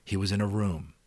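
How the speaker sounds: expressive read-aloud narration; story narration. A narrator's reading. Narrator reading The Giver to subscribers, expressive storytelling.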